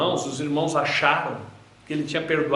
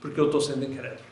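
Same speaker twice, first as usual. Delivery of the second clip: crying out prayer. Pretend. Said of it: "eu tenho que clamar".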